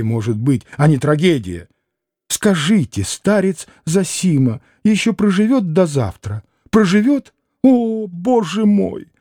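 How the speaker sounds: agitated lady. Acted. Mother complaining to Alyosha, high-strung and fretful. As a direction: pour out her woes breathlessly.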